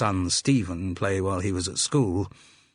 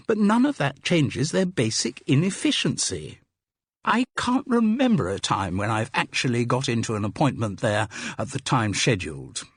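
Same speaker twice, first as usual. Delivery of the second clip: higher-pitched, worked-up complaint; moaning Carol, indignant patient; 5 semitones higher than usual. Acted. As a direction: grumble about the inefficiency, voice lifting. Carol moans about the surgery.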